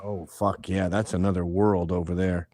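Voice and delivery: ordinary talk, nothing marked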